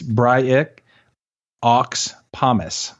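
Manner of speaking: badly faked French, word by word; mock French. Shown as a demonstration. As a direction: pronounce the French name with pauses between words. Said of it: "I'll give it to you in French".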